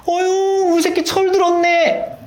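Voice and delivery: very high, gushing mock-parent voice; delighted parent imitation. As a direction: coo proudly at your grown child, hammed up. Delighted parent answering grown child. (기특해하는 부모의 높은 목소리 흉내)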